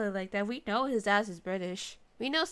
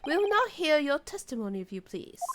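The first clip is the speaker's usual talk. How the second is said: judge; 3 semitones higher than usual. Acted. Voices the judge's ruling.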